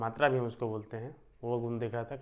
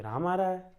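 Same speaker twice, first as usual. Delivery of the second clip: surprised question; 5 semitones higher than usual. Shown as a demonstration. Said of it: "आप आश्चर्य से पूछोगे".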